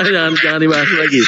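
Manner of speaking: high laugh into a quick plea; squealing laugh. Pretend. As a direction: laugh and beg them to stop. Tertawa lalu menolak. (tawa melengking)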